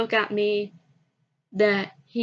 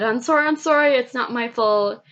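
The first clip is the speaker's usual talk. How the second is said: screamed apology; 3 semitones higher, 4 dB louder than usual. Retold or imitated. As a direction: blurt it out like a panicked kid yelling sorry. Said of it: "he screamed out loud".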